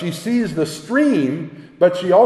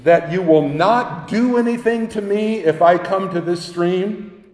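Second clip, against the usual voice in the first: put-on frightened girl; 4 semitones higher than usual. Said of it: "and she says".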